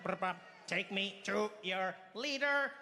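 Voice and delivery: slow robotic alien, drawn out. Retold or imitated. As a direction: play the alien slowly, mechanical. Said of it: "that one is just like".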